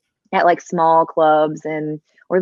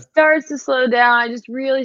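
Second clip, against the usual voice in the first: slowing down; 5 semitones higher than usual. Shown as a demonstration. Singer echoes host on her tipsy accent, slowing down. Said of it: "when the words start slowing down".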